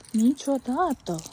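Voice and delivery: Niciodată drawn out slowly, syllable by syllable; slow, emphatic "Niciodată"; emphatic repeat. Real, not acted.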